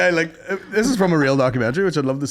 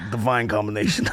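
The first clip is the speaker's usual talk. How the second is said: mock Italian chef; 5 semitones lower, 3 dB quieter than usual. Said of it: "He's like".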